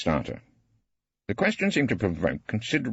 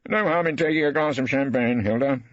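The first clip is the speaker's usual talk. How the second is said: mildly coaxing husband; reasonable Rumpole; 10 semitones higher, 4 dB louder than usual. A narrator's reading. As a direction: gently talk her round. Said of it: "I said reasonably".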